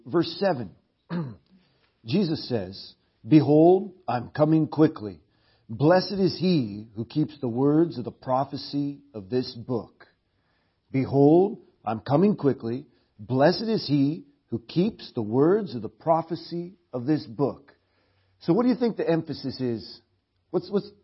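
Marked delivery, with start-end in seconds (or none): 3.3-10.1 loud, ringing reading of Jesus' words; proclaimed scripture. Acted. Preacher reading Jesus' promise aloud to the church, proclaiming. 10.9-17.7 loud, ringing reading of Jesus' words; proclaimed scripture. Acted. Preacher reading Jesus' promise aloud to the church, proclaiming. Preacher reads the verse again.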